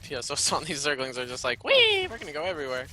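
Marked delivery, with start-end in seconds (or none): 1.6-2.9 very high squeal of joy; gleeful zergling voice. Pretend. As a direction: squeal like a giddy critter. Voicing zerglings.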